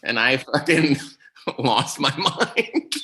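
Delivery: talking through laughter, slow and loud; laughing. Real, not acted. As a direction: crack up mid-sentence, dragging the words out. Cracking up at own story.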